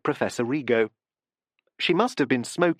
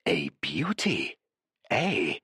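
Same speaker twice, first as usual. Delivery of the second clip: lower, slow and savouring; Professor Rigo's voice; 7 semitones lower, 4 dB quieter, slower than usual. A narrator's reading. Professor repeats his boast, low and slow. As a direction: savour the word beauty slowly. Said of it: "Professor Rigo repeated".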